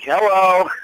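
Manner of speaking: high, loud mock hello; retold greeting. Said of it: "I was just like".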